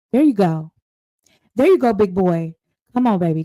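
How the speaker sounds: egging him on. Acted. Eggs him on in an aside.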